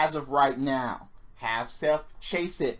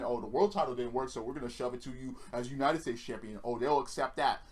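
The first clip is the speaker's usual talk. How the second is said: lower, softer mock scheming; mocking imitation; 4 semitones lower, 5 dB quieter than usual. WWE deciding what fans will accept, mocking imitation. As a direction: imitate bosses quietly plotting, dismissively. Voices WWE's scheming, then rejects it.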